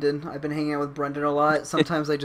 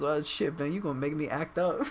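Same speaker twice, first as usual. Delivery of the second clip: soft, lightly imitated friend; Noah; 6 dB quieter than usual. Friend answering being told he is loved, soft imitated voice. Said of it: "And then he goes".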